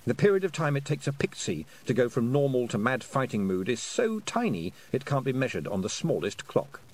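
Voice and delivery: ordinary delivery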